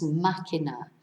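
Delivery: "máquina" with the first syllable stressed. Shown as a demonstration. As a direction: hit the start of "máquina", MA-ki-na. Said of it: "tells us to stress the first syllable".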